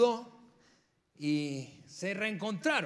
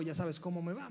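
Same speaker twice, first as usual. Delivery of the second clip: normal talking voice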